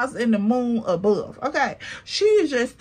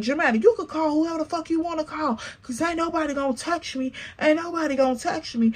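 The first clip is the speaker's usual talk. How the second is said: fast mock challenge; 4 semitones higher, 4 dB quieter, faster than usual. Acted quarrel quote.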